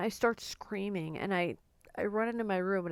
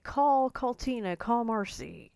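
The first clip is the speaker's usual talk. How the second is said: urgent plea, retold; 4 semitones higher, 5 dB louder than usual. Retells mother's urgent plea.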